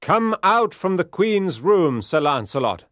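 loud commanding call; forceful knight's demand; loud cry. Acted. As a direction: order him out through a door. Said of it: "he cried loudly".

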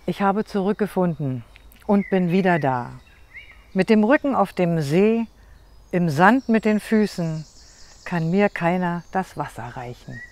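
short poem in spaced, measured lines; poem recitation. Shown as a demonstration. Poet gives a short closing poem to end her reading, measured recital. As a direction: recite with pauses, dropping at the close. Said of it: "Und noch zum Schluss ein kurzes".

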